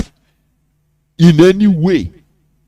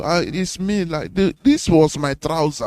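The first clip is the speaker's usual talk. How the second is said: softer, weak plea of a man who wasted away; mildly pitiful, say it softly; feeble starved man; 9 dB quieter than usual. Retold or imitated. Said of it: "He will be telling you".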